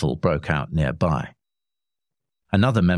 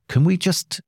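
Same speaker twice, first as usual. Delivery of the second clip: PM voice; 12 semitones higher than usual. A narrator's reading. PM tries to stop it.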